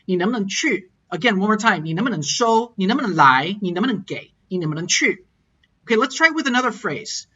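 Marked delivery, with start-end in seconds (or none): 0.0-0.9 能不能 glided over quickly before the last verb; glided middle. Shown as a demonstration. Teacher drilling final tones, gliding quickly over 能不能. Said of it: "It just glides over it really quickly". 1.8-5.2 能不能 glided over quickly before the last verb; glided middle. Shown as a demonstration. Teacher drilling final tones, gliding quickly over 能不能. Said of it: "It just glides over it really quickly".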